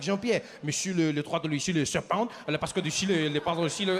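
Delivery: mock-French father chattering to his son; French accent. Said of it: "He turns to his son".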